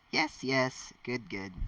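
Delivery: lively read-aloud voice, characters lightly voiced; story narration. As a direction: read the story to your viewers. Reads the fan fiction aloud.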